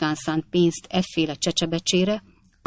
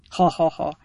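amused laugh. A narrator's reading. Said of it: "nagyon jól mulatott a saját tréfáján".

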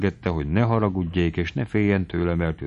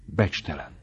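contemptuous hiss; 2 semitones lower, 5 dB quieter than usual. A narrator's reading. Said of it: "sziszegte a lány megvető hangon".

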